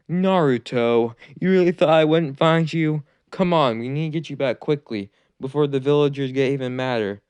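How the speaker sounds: teacher urgently calling his student home; Iruka calling out. Acted.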